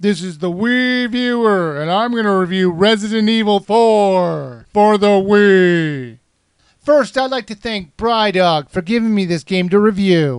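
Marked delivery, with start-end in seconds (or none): 0.0-6.2 slow, scary title-screen announcer voice. Trying the title-screen voice himself: imitating the scary voice guy. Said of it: "bring out the scary voice guy to do your title screen".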